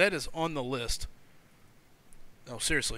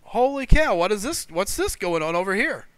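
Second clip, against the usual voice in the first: amazed passerby; 3 semitones higher, 5 dB louder than usual. Retold or imitated. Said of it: "people driving by are gonna be like".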